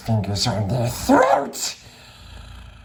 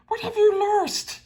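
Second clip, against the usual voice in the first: higher call into the dark; Bilbo calling. Acted. Bilbo calls across the dark water to Gollum. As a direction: call out to someone unseen. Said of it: "Bilbo called".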